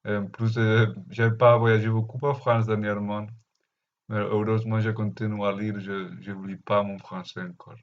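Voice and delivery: Spanish-accented French, rolled r; foreign accent in french. Real, not acted. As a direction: Catalan speaker's French accent. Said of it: "mon français, c'est pas très bon".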